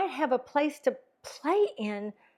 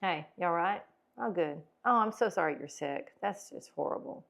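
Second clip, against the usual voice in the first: lower, softer, lifeless sympathy; depressing tone; 4 semitones lower, 5 dB quieter than usual. Shown as a demonstration. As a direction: droop through every line. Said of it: "how depressing it sounds".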